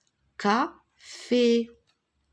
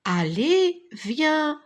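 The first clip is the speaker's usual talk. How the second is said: calling out; 3 dB louder than usual. Acted. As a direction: call the cat to come help. Dog calling cat in story. (appel enjoué du chien)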